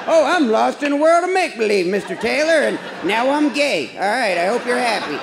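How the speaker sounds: mock gushing. Mocking a bookish fan.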